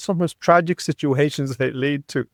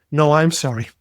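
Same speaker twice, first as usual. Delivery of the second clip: profuse apology; 2 semitones higher than usual. Retold or imitated. Cyclist apologizing to the driver he shouted at, retold profusely. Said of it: "he's profusely apologizing to me".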